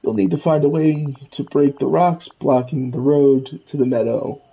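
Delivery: lightly voiced Scrooge. Scrooge tells the player about the village, lightly voiced. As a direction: lightly play the grumbling old money duck.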